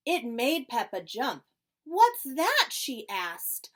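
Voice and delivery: lively storybook reading with voices; reading to children. Acted. Librarian reading Peppa Pig aloud to the children. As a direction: read it brightly to a circle of kids.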